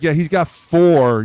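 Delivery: mock doctor's announcement. Mock doctor news, retold.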